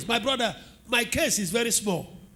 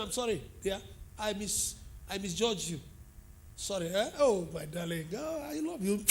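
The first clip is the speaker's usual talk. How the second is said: tender apology; 2 semitones lower, 9 dB quieter than usual. Retold or imitated. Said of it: "Even to my children, I tell them".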